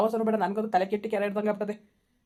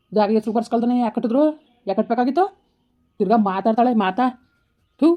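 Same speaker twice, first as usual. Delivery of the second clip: louder, heated complaint at the family; bitter angry scolding; 4 dB louder than usual. Acted. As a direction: rant it out, fed up and bitter. Quarrel with family over house. (ಜೋರಾಗಿ ಸಿಟ್ಟಿನಿಂದ ಬೈಯುವುದು)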